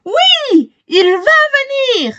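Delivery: put-on girl insists through tears; crying out. A narrator's reading. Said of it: "crie-t-elle".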